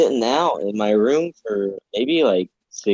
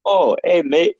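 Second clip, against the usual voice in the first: higher-pitched attempt at a Canadian accent; bad Canadian accent; 4 semitones higher than usual. Polite Canadian mafia asking to rob a bank, bad Canadian accent. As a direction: put on an unconvincing Canadian accent. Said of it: "I don't think that's a Canadian accent".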